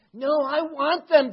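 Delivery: high, loud, drawn-out objection; forceful admonishment. Acted. Jesus admonishing his disciples for their attitude, insistent. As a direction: overrule them with passion. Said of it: "He admonishes them".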